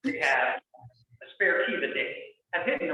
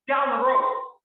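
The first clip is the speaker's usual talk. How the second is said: exasperated outburst; 9 semitones higher, 6 dB louder, slower than usual. Retold or imitated. Exasperated outburst ends quote.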